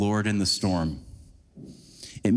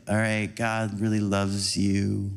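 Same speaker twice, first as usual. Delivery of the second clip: slower, lower, soothing reassurance; calming like Esther; 5 semitones lower than usual. Retold or imitated. Imitating the liturgy leader leading worship, slow and calming. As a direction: gently settle the room, unhurried. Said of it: "And it's very calming".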